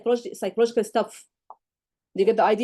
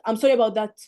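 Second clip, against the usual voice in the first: mock flat sorry, a bit louder; insincere sorry; 4 dB louder than usual. Shown as a demonstration. Tutor mocks a careless apology, half-hearted. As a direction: toss off the apology without meaning it. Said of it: "This is not sorry".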